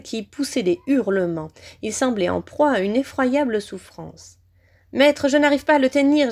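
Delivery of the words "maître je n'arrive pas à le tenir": higher-pitched, raised wail; moaning. A narrator's reading. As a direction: wail helplessly to a master. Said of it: "gémit-il".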